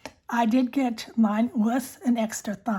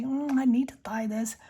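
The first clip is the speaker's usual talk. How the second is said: unvoiced ASMR whisper. Real, not acted. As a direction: breathe the words close to the mic. Whispered ASMR pen chat.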